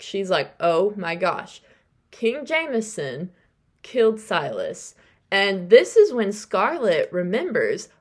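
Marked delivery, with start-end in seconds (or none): 0.6-4.9 slow, stunned realization; dawning shock. Retold or imitated. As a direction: let it sink in word by word. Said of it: "it hits Hollis like a truck".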